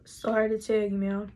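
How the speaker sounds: retold doctor, low and measured; lightly voiced doctor delivering bad news; doctor breaking bad news.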